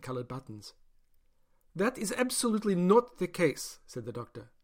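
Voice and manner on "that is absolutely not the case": firm denial. Acted. Doctor insists.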